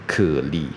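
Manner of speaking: "可力" as two separate syllables, slowly; slowed-down cly. Shown as a demonstration. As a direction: stretch kly out into "可力". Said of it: "念快一点就是cly". (把cly拆成"可力"慢慢念)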